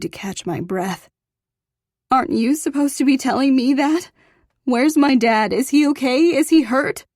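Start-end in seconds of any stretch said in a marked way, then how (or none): 2.1-7.1 high, loud frantic questions; frantic demands. A narrator's reading. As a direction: fire off the questions in rising alarm. Frantic questions about her dad.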